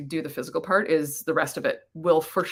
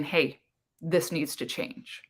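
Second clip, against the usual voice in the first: slow, softer voice of the clutter; quiet warning; 3 semitones lower, 6 dB quieter, much slower than usual. Pretend. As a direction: say it slowly and softly, like a nudge. Clutter personified speaking to you.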